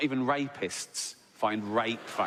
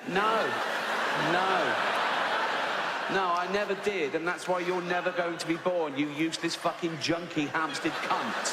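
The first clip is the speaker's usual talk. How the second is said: raised, hammed-up cruel refusal; mock cold rejection; 3 semitones higher than usual. Father spurns his dying son, hammed-up harsh. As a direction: slam it down on him, higher and harsher.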